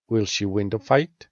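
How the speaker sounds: rising question intonation ending on "fight"; rising question tune. Shown as a demonstration. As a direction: pitch rises on "fight" at the end. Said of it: "make a rising intonation to the end of the sentence".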